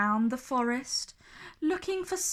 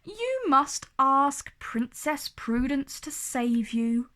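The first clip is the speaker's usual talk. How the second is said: twinkling; 3 semitones higher than usual. Acted. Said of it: "with a twinkle in his eye".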